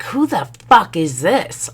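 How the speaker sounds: high, punchy comeback; mimicked indignant woman. Other woman answering the wife's call, mimicked indignation. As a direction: throw the question back with high attitude.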